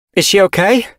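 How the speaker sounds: put-on concerned older she-cat. Windrunner arrives.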